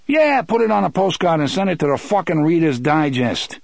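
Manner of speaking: high, exasperated character voice; sarcastic Eddie. Acted. Eddie scoffing at Roland's saying, sarcastic. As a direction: fling it back with heated sarcasm.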